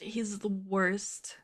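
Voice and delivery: slow unvoiced whisper. Shown as a demonstration. Repeating it to herself as a slow whisper. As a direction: breathe it out slowly.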